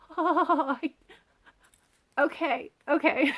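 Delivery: high, loud squeaky hi through a laugh; awkward greeting. Retold or imitated. Toby meeting the royal parents, flustered squeaky hi. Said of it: "and she's like".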